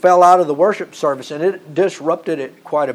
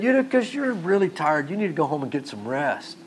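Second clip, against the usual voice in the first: soft, kindly send-home, trailing quieter; mock-gentle Paul; 7 dB quieter than usual. Preacher pretends Paul is sending tired Eutychus home, mock-gentle. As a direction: pretend soothing concern, easing off softly. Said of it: "That's not what Paul said".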